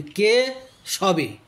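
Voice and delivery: কে pushed hard as a question, সবে set apart, very slow; slow, questioning কে সবে with a break; questioning stress on কে. Shown as a demonstration. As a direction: ask কে, then pause before সবে. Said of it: "কে উচ্চারণটা একটু জোর দিয়ে, খুব প্রশ্নসূচক করে".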